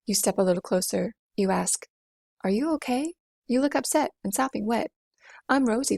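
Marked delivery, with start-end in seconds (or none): 2.4-6.0 lightly voiced Rosie. Rosie speaks to Jack.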